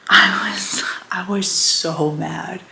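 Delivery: a real hushed whisper, slowed down; whispered confession. Real, not acted. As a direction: breathe the admission out slowly. Confessing anger about the letter.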